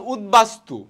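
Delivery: উদ্বাস্তু as ud-bastu; b fully sounded. Shown as a demonstration. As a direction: keep the b in উদ্বাস্তু. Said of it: "বহাল থাকবে".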